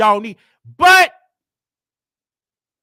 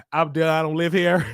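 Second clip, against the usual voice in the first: laughing. Retold or imitated. Telling officer he is leaving.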